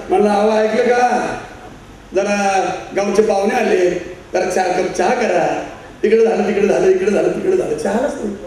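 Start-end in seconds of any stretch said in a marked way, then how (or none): 0.3-5.6 slow, polite husband's request. Retold or imitated. Grandfather to his wife before the guests, slow and polite. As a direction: ask the wife nicely in front of guests. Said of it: "जरा सभ्य झाला".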